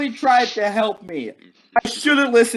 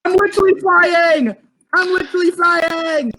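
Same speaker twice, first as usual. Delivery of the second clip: excited; 9 semitones higher than usual. Real, not acted. Flying again.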